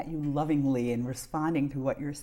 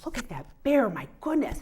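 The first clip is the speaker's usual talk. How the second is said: excited "look at that bear"; lively storytime voice pointing out the bear; reading to a toddler; 3 semitones higher, 3 dB louder than usual. Retold or imitated. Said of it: "I'd say".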